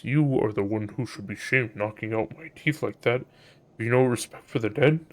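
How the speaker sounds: soft, mock-solemn voice of the dead; lightly voiced reproachful corpse; thrown corpse voice. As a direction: speak as a ventriloquized corpse. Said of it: "throw voice".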